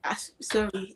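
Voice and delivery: sheepish whispered apology; whispered sorry. Real, not acted. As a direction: breathe the sorry out, barely voiced. Apologising to caught-out guest.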